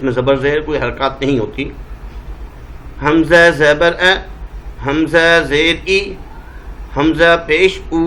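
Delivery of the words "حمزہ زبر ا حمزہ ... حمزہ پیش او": hamza with zabar, zer, pesh said as plain a, i, u; hamza vowels. Shown as a demonstration. Teacher to children, clean hamza vowels. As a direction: sound the hamza vowels cleanly without any ain. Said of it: "ا ای او".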